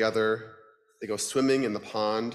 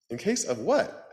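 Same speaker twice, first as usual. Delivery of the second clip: duck voice; 5 semitones higher than usual. Acted. Duck character voice.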